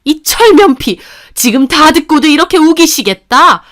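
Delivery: mother-in-law shouting accusations of cheating; angry accusing. Acted. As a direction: berate her without letting up.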